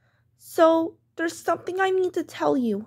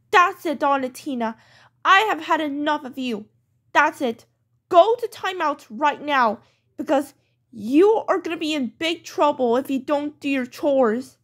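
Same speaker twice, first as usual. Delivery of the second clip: fed-up, firm scolding, slightly lower; stern mother; 3 semitones lower than usual. Acted. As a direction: lay down the law to a child. I have had enough of you.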